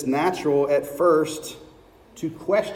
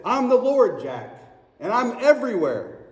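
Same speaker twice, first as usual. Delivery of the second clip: God's voice; 6 semitones higher than usual. Acted. God answers Jack.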